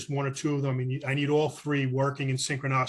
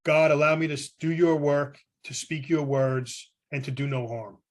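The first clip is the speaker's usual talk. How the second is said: prayer. Retold or imitated. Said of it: "I say a prayer that goes just like this".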